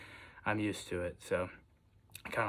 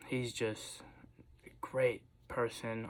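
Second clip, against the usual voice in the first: whisper; slower than usual. Real, not acted. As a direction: breathe the words out, unvoiced and tender. Heartfelt tribute to his dad.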